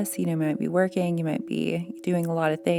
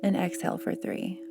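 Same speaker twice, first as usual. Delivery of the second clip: soft, unhurried breathing cues with long pauses; guided breathing; 3 semitones higher, 3 dB quieter than usual. Real, not acted. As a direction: count the breaths gently, lifting the pitch on each count. Leads a breathing exercise.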